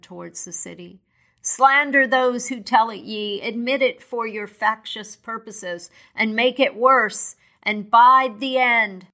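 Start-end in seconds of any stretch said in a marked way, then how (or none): 1.4-9.1 higher, rising anger; a mild ghostly rebuke building up; stern spirit. Acted. The spirit scolds Scrooge's followers, higher and stern. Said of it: "cried the spirit".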